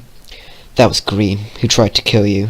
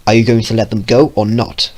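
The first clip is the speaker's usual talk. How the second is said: spat; 3 dB louder than usual. Acted. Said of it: "Vio spat".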